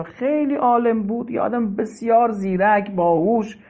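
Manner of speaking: ordinary talk, nothing marked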